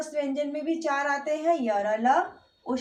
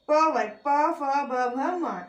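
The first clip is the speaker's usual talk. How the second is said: drawn-out, evenly spaced letters; slow letter recitation; slower than usual. Shown as a demonstration. Teacher recites the प group for students, slow and drawn out. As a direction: sound out each letter at length.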